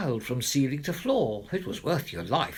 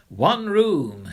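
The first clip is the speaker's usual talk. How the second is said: firm declaration; 2 semitones higher, 7 dB louder than usual. Acted. Weary mother declaring firmly.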